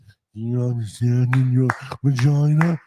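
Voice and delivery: slow slurred mock-drunk words; slurred speech. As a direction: slur it like you're drunk. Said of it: "You're slurring your words".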